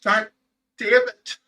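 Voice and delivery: a high, cracking cry on damn it, then a tearful apology; fighting back tears; choked up. Real, not acted. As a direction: voice breaking with real grief. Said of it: "I'm done with the tears".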